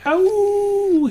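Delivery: high, drawn-out mock dog howl; imitated dog holler. Co-host showing how the dog hollers, imitated howl. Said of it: "he would've hollered like".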